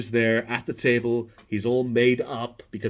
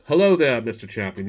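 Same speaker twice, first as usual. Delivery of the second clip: James Lipton; 2 semitones lower, 4 dB louder than usual. Retold or imitated. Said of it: "he's like".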